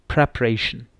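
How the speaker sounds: प्रिपरेशन with a pre sound, pre-paration; correct pronunciation. Shown as a demonstration. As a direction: say प्रिपरेशन clearly, starting pre. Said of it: "इसकी क्या pronunciation है". (प्रिपरेशन सही उच्चारण, प्रे से शुरू)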